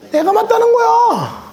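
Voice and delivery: high, slow, self-satisfied claim; smug insistence. Retold or imitated. Pastor mocking the lazy man's smug claim, high and slow.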